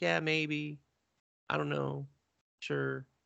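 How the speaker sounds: drowsy, slow, dragged-out, creaky drawl. Retelling a sleepy character answering a friend: imitating a sleepy slow voice. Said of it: "because she's sleepy and slow".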